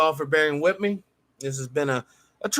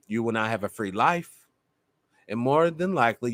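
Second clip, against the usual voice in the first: softer, lower and heavy-hearted; emotional; 7 semitones lower, 4 dB quieter than usual. Real, not acted. Host pleading with brothers and sisters, emotional and soft. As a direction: plead with them through rising emotion. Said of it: "Sorry about getting emotional".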